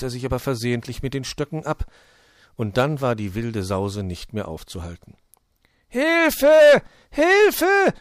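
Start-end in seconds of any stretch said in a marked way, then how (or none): 5.9-7.9 gellend hoher Hilferuf; Schrei aus voller Kehle. A narrator's reading. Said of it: "schrie er aus voller Kehle". (aus voller Kehle schreien)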